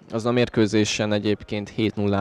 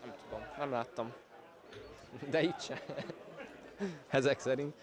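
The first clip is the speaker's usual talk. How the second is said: off-mic aside; 4 semitones higher, 21 dB quieter than usual. Real, not acted. Off-mic aside, far quieter.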